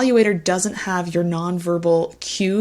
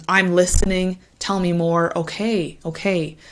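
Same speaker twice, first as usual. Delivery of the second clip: falling, reassuring okay okay; engaged listening tone. Shown as a demonstration. Tutor models the right intonation for candidates. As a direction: invite more detail. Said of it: "That's what we want".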